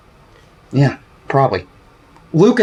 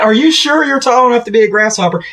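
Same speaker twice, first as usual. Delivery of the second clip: higher-pitched mock taunt at a player; retold heckle; 6 semitones higher than usual. Fan retelling his heckle of a short shortstop, teasing taunt. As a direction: re-enact the shouted jibe without really shouting. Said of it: "I shouted at him".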